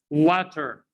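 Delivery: "What are" said as one word, "water"; fuse "are" onto "What" as an R; linked what are. Shown as a demonstration. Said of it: "You hear it?".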